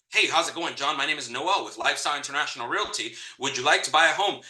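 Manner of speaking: quick, scripted sales pitch; robotic salesperson. Retold or imitated. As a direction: rattle off a canned sales line. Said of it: "Like, I tried that".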